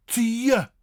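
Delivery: Tje as "tyuh", high and loud; crisp t in Tje; correct tje sound. Shown as a demonstration. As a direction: demonstrate Tje with t plus y. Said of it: "Not je, but tje".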